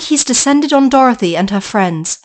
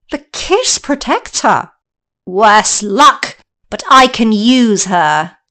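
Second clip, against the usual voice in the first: scheming witch; slower than usual. Acted.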